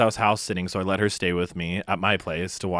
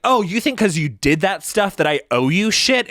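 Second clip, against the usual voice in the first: mock angry quote; 9 semitones higher, 5 dB louder than usual. Retold fight, quoting roommate.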